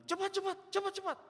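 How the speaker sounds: high, loud, insistent hurrying; impatient mock yell. Cranky old woman rushes the pastor to move, shrieky mock order. Neighbour hurries him along, retold.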